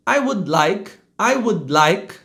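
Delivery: "would" joining "like" with no vowel between; unreleased d. Shown as a demonstration. Teacher's correct phrase, "would" without added i. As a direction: hold the d of "would" into "like". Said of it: "como se eu fosse projetar o D".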